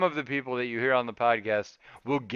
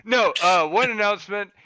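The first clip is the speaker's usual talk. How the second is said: put-on Cajun accent; 4 semitones higher, 6 dB louder than usual. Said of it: "now I'm doing it in my accent".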